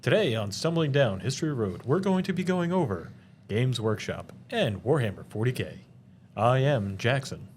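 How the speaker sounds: hammed-up game show host intro; lightly put-on show announcer, swooping phrases. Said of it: "I don't know why I'm doing this voice".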